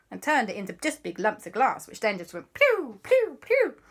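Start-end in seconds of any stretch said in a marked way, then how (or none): 2.5-3.8 laser noises. Acted. Imitates lasers firing.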